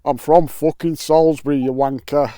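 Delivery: a lightly put-on mate's voice; voicing Sean. The sticker Sean retorting to the vlogger, lightly voiced. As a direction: give the sticker a cheeky retort. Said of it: "Why have you got a northern accent then".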